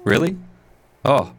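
static-choked voice; distorted, crackling line; crackly voice. Real, not acted. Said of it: "you're crackly".

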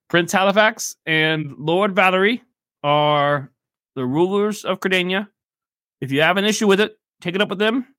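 a mildly annoyed merchant who wants them gone; irritated shopkeeper. Acted. Shopkeeper telling the party to take it up with the crown, testy.

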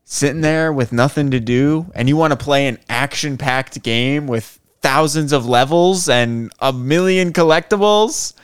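hyped game ad pitch; ad read voice. Pretend. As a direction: build up like a mobile game ad. Mock game ad.

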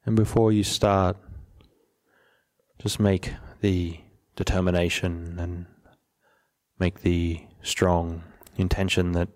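measured, even delivery, settling at the ends of phrases; guided meditation. Real, not acted. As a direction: gently lead listeners into stillness, unhurried.

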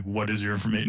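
lightly voiced robot policeman; RoboCop. RoboCop questions a man claiming a reward, lightly imitated. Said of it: "Now I'm sounding like Arnold Schwarzenegger".

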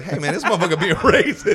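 high mock heckler, laughing through it; imitating a heckler. Comic retelling the heckler again, high laughing mock voice.

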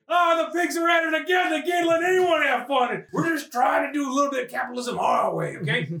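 a shady Santa ranting at the cops; indignant crook. Acted. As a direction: complain about the cops like a shady dealer. Voicing bootleg Santa.

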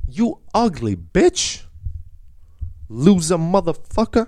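high-pitched, drawn-out mock insult; acted-out heckle. Podcaster re-enacting his heckle at Paludan, high drawn-out mock taunt.

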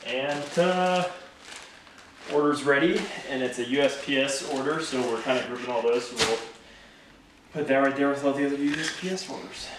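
winded, catching breath between words; breathless after packing. Real, not acted. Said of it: "And he's out of breath".

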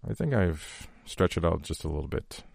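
quietly moved, fighting tears; getting emotional. Real, not acted. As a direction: let the emotion catch in your throat. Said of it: "I think I'm getting emotional here".

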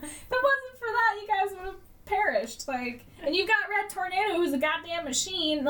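high-pitched indignant rant; mock-indignant rant; incredulous rant. Real, not acted. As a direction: keep the disbelief going.

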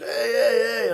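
high calling out across the water; imitating a distant yell; mock shout from afar. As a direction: call out like a surfer yelling from far off. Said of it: "צועק לי איזה לונגבורד מרחוק".

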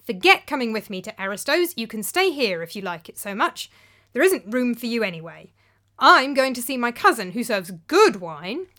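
cold fury. Acted. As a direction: cut him off coldly. Cold fury dismissing Philip.

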